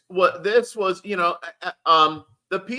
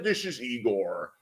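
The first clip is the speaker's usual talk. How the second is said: put-on low, slow Sean Connery-like Russian accent; a bad Russian accent that lands on Sean Connery; botched Russian accent; 10 semitones lower, 7 dB quieter than usual. Playing a Russian caller, in a botched Russian accent. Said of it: "That's a Sean Connery accent".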